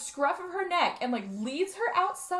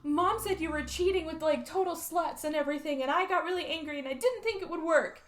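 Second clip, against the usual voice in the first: upset daughter; 5 semitones higher than usual. Retold or imitated. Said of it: "But she goes".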